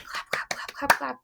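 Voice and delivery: whispered clap chant; hushed counting claps. Acted. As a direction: breathe the claps out softly.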